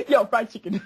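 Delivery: giggling through the words; laughing. Retold or imitated. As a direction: repeat it cracking up. Repeats the punchline while laughing.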